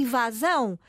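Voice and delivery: "invasão" stressed on the last syllable "são"; careful "invasão", open A and stressed ending; final-syllable stress. Shown as a demonstration. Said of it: "O seu acento tónico está na última sílaba".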